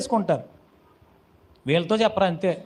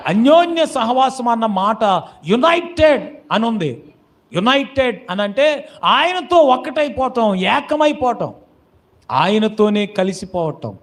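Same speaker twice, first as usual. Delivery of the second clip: raised, declaiming preacher's voice; emphatic preaching; 3 semitones higher, 4 dB louder than usual. Acted. Preacher explaining what fellowship with God means, emphatic. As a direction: drive each key word home to the congregation.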